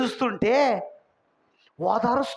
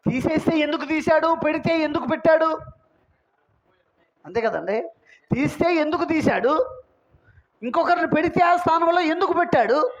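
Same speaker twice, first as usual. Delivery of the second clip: driving rhetorical questions, pitched up at the ends; insistent preaching; 5 semitones higher than usual. Real, not acted. Preacher asking congregation why God replaced one, insistent preaching. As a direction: press the congregation with question after question.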